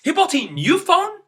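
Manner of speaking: high, loud angry question; angry parent at a son's spending. Shown as a demonstration. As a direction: scold the son. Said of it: "in an angry tone".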